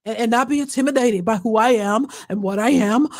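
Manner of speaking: mock breathless celebrity voice; lightly put-on swollen-throat voice; gasping impersonation. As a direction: imitate her, gasping between phrases. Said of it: "she's kinda gasping for breath".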